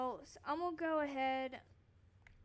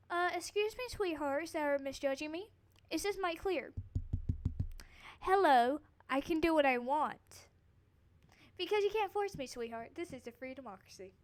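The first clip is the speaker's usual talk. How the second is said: sassy; 3 semitones higher, 4 dB louder than usual. Real, not acted. Sassy rant at haters.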